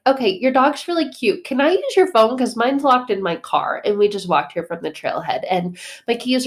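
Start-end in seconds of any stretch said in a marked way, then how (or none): 0.0-3.8 urgent pleading. Retold or imitated. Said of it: "But I'm like".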